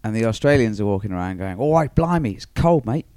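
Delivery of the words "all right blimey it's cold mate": high, loud mock Aussie voice; hammed-up Australian bloke; Australian accent. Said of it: "It's my Australian accent".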